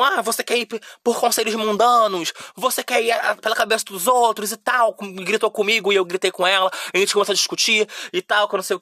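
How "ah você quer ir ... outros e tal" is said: higher, mocking imitation of a preachy aunt; scolding aunt. Aunt lecturing her teen niece about worldly advice, mock preachy and higher. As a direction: mimic the aunt's judgmental questions, pitched up. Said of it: "uma tia minha tinha ido lá em casa e falou".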